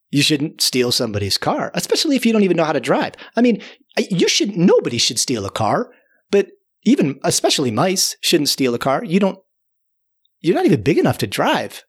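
lightly exasperated lecture; mild scolding. Retold or imitated. Storyteller lecturing car-thief mice, mild scolding. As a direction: reprove them with rising, halting insistence. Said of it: "I'm a little bit scolding the mice".

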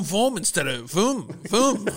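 vroom in a German accent, drawn out; German accent car noise. Shown as a demonstration. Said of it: "that sounded like your German accent of a car".

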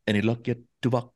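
lightly put-on character voice; a subtle impression built on a key phrase; Chakotay. Shown as a demonstration. Crewman turning to a colleague in a TV episode, lightly imitated voice. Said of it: "where Chakotay turns to Tuvok and says".

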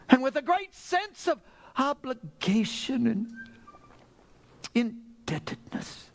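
emotional pulpit thanksgiving; impassioned preaching. Real, not acted. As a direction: pile up the phrases with overflowing gratitude. Preacher prays with rising fervour.

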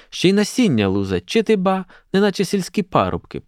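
indignant aside rising high; a hint of a scandalised matron; disapproving. A narrator's reading. Stepanyda likening students to village lads, disapproving. Older woman chimes in, disapproving.

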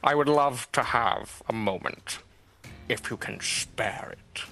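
lightly voiced smug villain, slow and drawn out; a hint of a courteous menacing orator addressing a crowd; slow villain speech. Villain mock polite.

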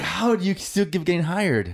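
high, disbelieving question; incredulous. Retold or imitated. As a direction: ask it in mock disbelief. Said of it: "And I'm like".

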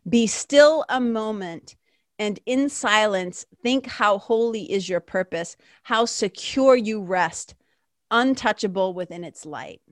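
slow, hushed sacred reading; calm slow reading. Real, not acted. Reading the lesson to listeners, calm and slow. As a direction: invite stillness with each phrase.

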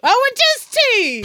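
lightly voiced Irish accent as a rapper; a touch of an Irish lilt, playful; hint of Irish. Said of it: "can he have an Irish accent".

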